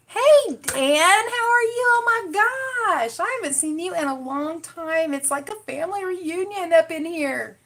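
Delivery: high-pitched "oh my gosh" welcome; excited greeting. Real, not acted. Greeting commenters by name excitedly.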